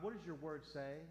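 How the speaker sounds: ordinary talk, nothing marked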